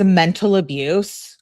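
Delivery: incredulous question. Retold or imitated. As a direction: throw "Mental abuse" back as an indignant question. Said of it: "with a bunch of question marks".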